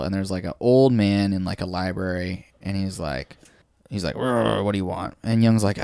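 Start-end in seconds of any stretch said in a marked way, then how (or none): 4.1-5.1 growled grumble, lightly voiced; mock grumpy growl to open; grumpy old man. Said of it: "he's super grumpy".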